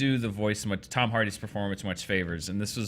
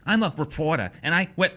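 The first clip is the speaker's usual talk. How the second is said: raised, pieced-together mock accent; Tom Hardy; 4 semitones higher than usual. Host imitating choppy trailer dialogue, mock accent. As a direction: imitate an oddly accented film hero, pitched up. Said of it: "listen to all of Tom Hardy's voice".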